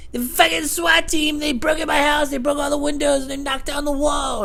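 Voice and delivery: high, loud panicked put-on voice; imitated frantic neighbor. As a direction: play the paranoid neighbor raving. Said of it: "And he's like".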